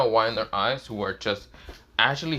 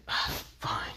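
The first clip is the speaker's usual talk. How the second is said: reluctant sigh; 8 dB quieter than usual. Acted. Reluctant admission.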